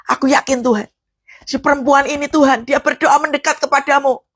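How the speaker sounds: fervent prayer demo building to a shout; preacher shows how to pray a verse. Shown as a demonstration. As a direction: pray the scripture aloud with rising fire. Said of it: "cara bacanya kayak begini".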